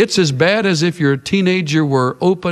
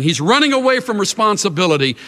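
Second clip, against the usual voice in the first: usual speaking voice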